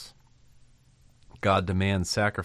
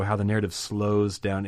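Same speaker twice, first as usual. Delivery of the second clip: ordinary talk, nothing marked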